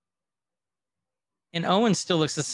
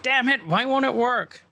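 mock frustration; 10 semitones higher than usual. Loki's powers fail in court.

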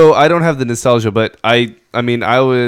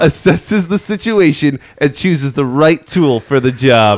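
epic narration. Shown as a demonstration. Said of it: "I love you're still reading right now".

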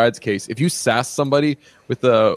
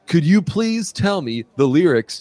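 higher, lightly voiced questioner; imitated press questioner; 5 semitones higher than usual. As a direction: mimic someone making a polite plea, pitched up. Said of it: "he's like".

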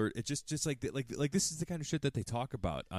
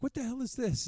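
high-pitched imitation of indignant outrage; put-on scolding, high but not shouted; mock berating. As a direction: act out appalled disbelief, pitch leaping up. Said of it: "berating it".

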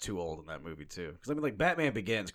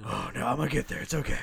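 lightly breathless reassurance; mock-exhausted hero; winded Batman; 4 semitones higher, 4 dB louder than usual. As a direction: insist you're fine while puffing. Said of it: "you need some oxygen, Batman".

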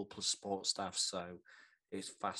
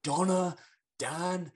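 announcing; 9 semitones higher, 9 dB louder, much slower than usual. Acted. Host announcing team on stage.

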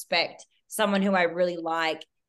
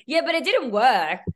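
laughing; 6 semitones higher, 6 dB louder than usual. Real, not acted. Laughing reply to host's joke.

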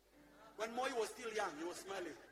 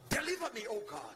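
louder prayer; 5 dB louder than usual. Shown as a demonstration. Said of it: "Say loudly".

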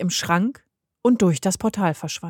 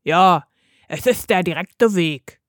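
lightly voiced wolf giving assurance; assuring wolf; 4 dB louder than usual. A narrator's reading. The wolf assures Mirko about the portal, mildly reassuring. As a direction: assure him in a slight wolf voice. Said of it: "versicherte der Wolf".

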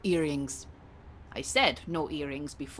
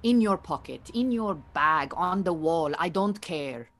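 louder impatient order; 5 dB louder than usual. Acted. Yegane losing patience, ordering.

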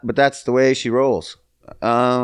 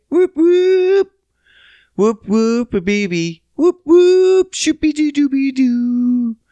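high gleeful whoop whoop chant; joyful whoops; 13 semitones higher, 4 dB louder, slower than usual. Real, not acted. Host celebrating his son's return, high whooping chant. Cheering son comes back.

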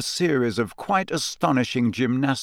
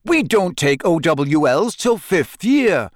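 higher, slow indignant objection; indignant protest; 5 semitones higher, 4 dB louder, slower than usual. A narrator's reading. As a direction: protest like it's unfair. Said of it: "said Dean Thomas indignantly".

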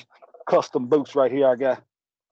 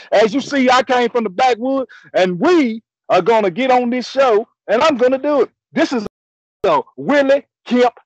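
hollered country showman's proclamation, raised pitch; loud triumphant announcing; 4 semitones higher, 5 dB louder than usual. Acted. Willie kicked off the show, now back on air, loud crowing. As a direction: announce your takeover at full voice.

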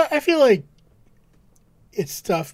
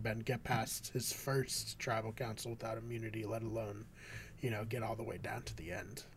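talking around a cherry; words round a mouthful of fruit; mouth full; 4 semitones lower, 11 dB quieter than usual. Real, not acted. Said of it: "I got a cherry in my mouth".

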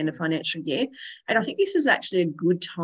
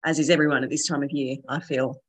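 hoarse, croaky from a cold; 2 semitones lower than usual. Real, not acted. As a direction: talk through a sore, croaky throat. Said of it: "my little croaky voice today".

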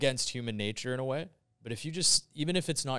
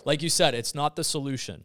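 louder, higher insistence; emphatic; 5 semitones higher, 7 dB louder than usual. Real, not acted. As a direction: drive the point home.

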